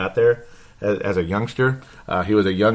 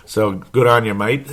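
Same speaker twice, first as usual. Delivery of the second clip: put-on Aussie accent. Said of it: "I pick up the Aussie accent sometimes".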